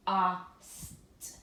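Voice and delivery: "P-a-st" sounded out with a short a; short a tapped. Shown as a demonstration. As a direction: tap it out slowly with short "a". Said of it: "doesn't sound like a real word".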